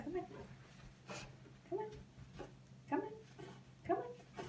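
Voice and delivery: high coaxing call. Real, not acted. Coaxing puppy onto cushion.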